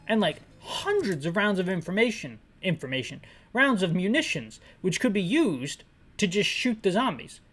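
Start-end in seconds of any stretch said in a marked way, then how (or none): none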